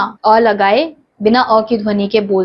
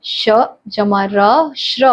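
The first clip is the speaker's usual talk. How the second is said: slow spelling demo; much slower than usual. Shown as a demonstration. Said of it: "ऐसे ही अगला है".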